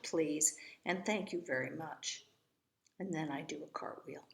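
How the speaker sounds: lively, expressive storybook reading; story narration. A narrator's reading. Eloise telling about her mother and the lawyer, storybook narration. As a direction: read it as a chatty child narrator's tale.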